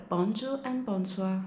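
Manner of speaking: "bonjour" as BON-joo with a hard j, "bonsoir" as BON-swa; Maltese greetings. Shown as a demonstration. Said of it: "sound very similar to the Italian".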